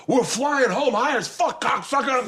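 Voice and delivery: high, raucous imitation of a prankster; hammed-up gleeful taunt; crowing mock holler. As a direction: whoop it at the victim. Retold drugger crows at victim.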